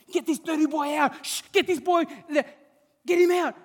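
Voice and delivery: hammed-up shoo away; mock crowd outrage.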